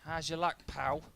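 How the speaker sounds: a light, self-admittedly bad southern English accent; lightly imitating a southern English accent; a quick, half-hearted southern English accent quote; the speaker's southern accent. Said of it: "My southern accent is terrible".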